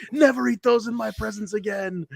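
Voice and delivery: high-pitched, indignant diva imitation; mock imperious scolding. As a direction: hand down a haughty, hammed-up order. Acting out her scolding order.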